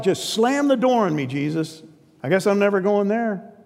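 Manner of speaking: high, hammed-up despair; mock despair. A listener bemoaning the verdict from Jesus, high mock despair. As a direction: whine it like the door just slammed. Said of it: "That's like".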